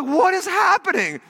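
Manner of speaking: high, stretched-out disbelief; hammed-up astonishment; acted bewilderment. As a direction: exclaim it slowly, way up high. Acting bewilderment at man freaking out.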